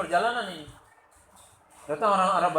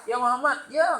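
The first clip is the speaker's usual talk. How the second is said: a raised, higher call by name; loud call; 6 semitones higher, 3 dB louder, slower than usual. Retold or imitated. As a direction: hail him loudly from afar. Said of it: "Dia panggil suaranya keras". (panggilan keras dan tinggi)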